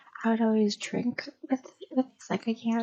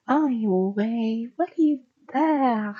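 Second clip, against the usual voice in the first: loud, drawn-out Hispanic accent imitation; thick Hispanic accent; 5 dB louder, slower than usual. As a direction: badly mimic a cleaning lady's thick Hispanic accent. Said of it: "really thick Hispanic accent".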